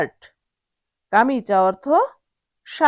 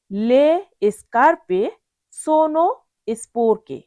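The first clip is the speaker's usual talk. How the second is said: careful model sentence; 2 semitones higher, slower than usual. Shown as a demonstration. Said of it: "আবার বলছি".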